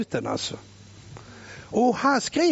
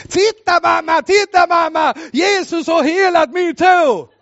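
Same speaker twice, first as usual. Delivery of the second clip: put-on higher, louder boy shouting to mum; excited boy calling; 6 semitones higher, 6 dB louder than usual. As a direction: call out like an overjoyed kid. Healed boy calling to mother. (pojke som ropar till mamma, högre och ivrigare)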